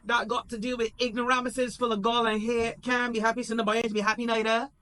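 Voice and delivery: half-crying outburst, high and loud; high tearful mock rant.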